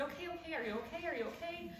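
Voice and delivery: retold motherly worry, hushed and high; alarmed concern. Mother to daughter after a car accident, alarmed.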